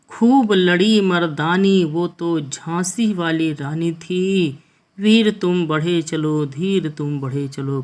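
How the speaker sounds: slow, measured verse recital; poem recitation. Acted. Teacher reciting a Hindi verse to students, slow poem recitation. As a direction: draw each line out like a poet on stage.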